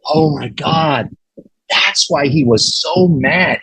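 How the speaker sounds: slow, drawn-out dawning shock; stunned realization. Retold or imitated. Interviewer learning the secret years later, stunned. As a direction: re-enact the penny dropping, slowly.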